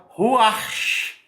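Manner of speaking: "ruach" said with emphatic, breath-heavy ending; "ruach" pronounced as a Hebrew example; careful Hebrew pronunciation. Shown as a demonstration. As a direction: demonstrate how "ruach" is intoned, drawing out the final consonant. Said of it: "é a entonação da palavra".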